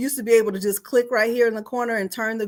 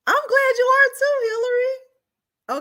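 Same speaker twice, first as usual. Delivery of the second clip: emotional, near tears; 3 dB louder than usual. Real, not acted. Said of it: "y'all know I get all emotional".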